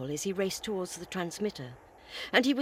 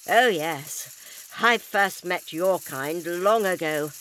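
defiant; 2 semitones lower, 6 dB louder, slower than usual. Acted. Doctor defies the alien.

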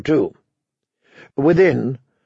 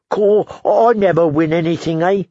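high, mournful grumble; gloomy complaint; 4 semitones higher than usual. Acted. Dolorous Ed complains to Pip, glumly. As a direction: moan it like a born loser. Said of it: "Dolorous Ed complained".

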